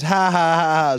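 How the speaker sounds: mock laugh, spelt out in drawn ha-has; imitated laughing. Older sister laughing at her fooled brother, imitated mocking laugh. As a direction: mimic someone laughing at you. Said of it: "started laughing at me".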